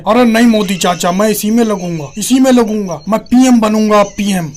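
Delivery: lightly voiced insistent challenger; hint of mock political defiance; stubborn younger politician. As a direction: insist like a stubborn nephew to an uncle.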